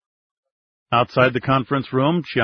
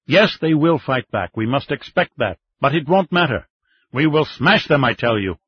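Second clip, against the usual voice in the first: higher, firm insistence; insisting; 3 semitones higher than usual. Acted. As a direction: hammer the point home. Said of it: "he insisted".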